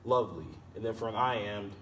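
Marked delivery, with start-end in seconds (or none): 0.0-0.5 "Lovely" with stressed "Love" and falling, light "ly"; stress on first syllable. Shown as a demonstration. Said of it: "what makes it stressed and unstressed".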